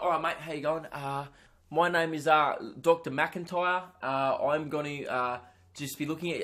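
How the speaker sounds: imitating a British doctor introducing himself; casual, lightly faked British accent. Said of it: "he had a British accent".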